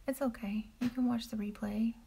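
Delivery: soft whispered reassurance; reassuring whisper. Real, not acted. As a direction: whisper it kindly to a latecomer. Reassuring a viewer who missed it.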